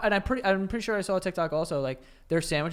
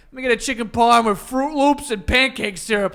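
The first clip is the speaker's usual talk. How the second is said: mock New York order; 7 semitones higher, 9 dB louder than usual. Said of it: "It's like".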